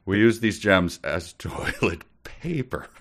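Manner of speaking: laughing through words; giggling as it comes out. Real, not acted. Quoting the line, laughing.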